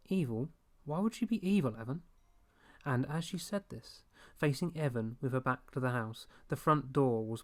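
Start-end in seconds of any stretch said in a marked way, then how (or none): 0.1-2.0 higher, incredulous mum's reply; a mother brushing off a silly fear; puzzled mother. A narrator's reading.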